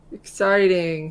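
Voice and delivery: flat, slow, bored "exciting"; unenthusiastic. Real, not acted. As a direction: drags out "exciting" with no enthusiasm. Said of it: "that exciting didn't sound very enthusiastic".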